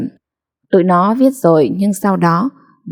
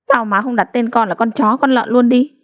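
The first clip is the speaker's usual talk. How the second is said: pouty, rising higher; sulky; 4 semitones higher than usual. Acted. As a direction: sulk at mother. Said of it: "Dậu ngúng nguẩy". (giọng hờn dỗi)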